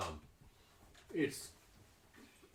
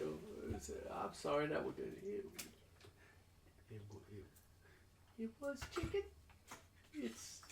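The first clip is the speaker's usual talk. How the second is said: high, nervous stammering apology; flustered apology; 4 semitones higher, 10 dB quieter than usual. Acted. Nervous cook apologizing for burnt chicken, high flustered stammer.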